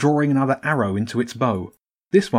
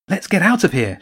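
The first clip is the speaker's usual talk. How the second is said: higher, urgent whisper-quick plea; urgently; 7 semitones higher, 4 dB louder than usual. A narrator's reading. Jenny pulling James away, urgent and higher. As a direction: hurry him out. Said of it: "she said urgently".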